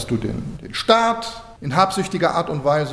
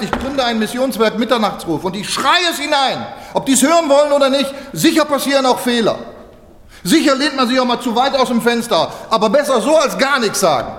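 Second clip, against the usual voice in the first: bold proclamation; 6 semitones higher than usual. Retold or imitated. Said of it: "Er hat gesagt".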